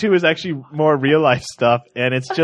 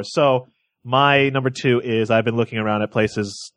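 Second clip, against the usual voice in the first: ordinary talk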